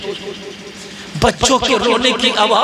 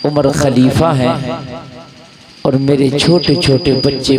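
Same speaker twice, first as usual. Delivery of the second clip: put-on much lower, bitter old woman; bitter complaint; 9 semitones lower than usual. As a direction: complain bitterly about hungry children. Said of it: "खातून ने कहा". (कड़वी शिकायत)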